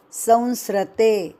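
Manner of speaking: संसृते said as sam-sri-te; wrong pronunciation. Shown as a demonstration. Teacher shows students the wrong reading, plainly. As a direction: show the mistake संसृते. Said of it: "यह गलत उच्चारण".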